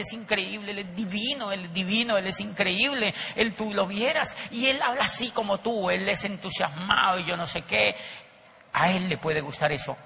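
a light imitation of her raving about him; gushing admiration. Wife raving to the speaker about her boss, mildly adoring. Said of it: "se le iluminaba la cara cuando hablaba del jefe".

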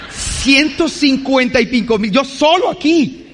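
shocked at paying so much on a Tuesday, shouting slowly; outraged shout. Retold or imitated. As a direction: shout the amount slowly, in disbelief. Inner thought, outraged at the price.

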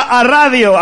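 "a radio" dicho todo junto, como "arradio"; pronunciación de viejo. Retold or imitated. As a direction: pega una "a" delante de "radio". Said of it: "cuando un viejo dice la palabra". ("a radio" a lo pueblerino, como "arradio")

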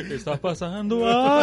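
rising to a high, loud yelp; seeing the crucifix spin, shocked yelp; mock shock. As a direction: freak out at the crucifix. Acting out his shock.

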